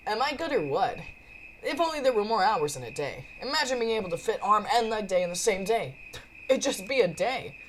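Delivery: lightly acted gym-loving braggart; lightly voiced cocky Frankie. Frankie shows off to Jack after training, cocky. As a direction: play a boastful workout buddy.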